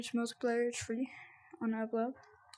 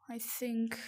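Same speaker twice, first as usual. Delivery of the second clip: whisper; 4 dB quieter than usual. Real, not acted. Aside to self.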